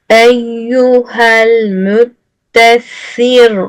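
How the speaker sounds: very slow chanted tajweed; Quran recitation. Acted. Teacher reciting the verse slowly for students. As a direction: draw out each syllable in recitation.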